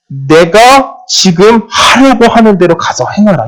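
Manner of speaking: slow, high, solemn recital of 내가 지금 하려고 하는 대로 가서 행하라; solemn scripture voice. Retold or imitated. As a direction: intone it like a divine command. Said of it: "이 말씀 구절을 봤다".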